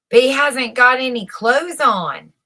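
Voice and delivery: put-on a child gasping out the truth; gasped. A narrator's reading. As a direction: blurt it out like a stunned little child. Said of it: "gasped a little child".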